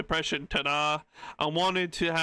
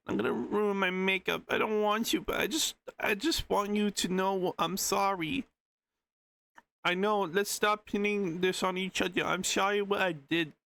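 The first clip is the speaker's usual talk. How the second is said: lightly acted, higher pleading read; pleading apology voice; 4 semitones higher than usual. Reading an apology message aloud, lightly pleading. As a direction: put a touch of high-pitched pleading into the message.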